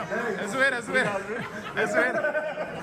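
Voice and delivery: laughing. Real, not acted. Laughing, says it's a joke.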